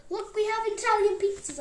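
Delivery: high-pitched mock calling out; imitated yell. Mum announcing Italian pizzas to the child, high mock yell. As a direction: call it out high, but not at full volume. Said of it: "She would yell".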